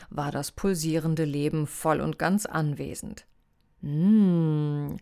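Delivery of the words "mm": lewd hum. A narrator's reading. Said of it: "listerte Tiki und leckte sich lasziv die Lippen".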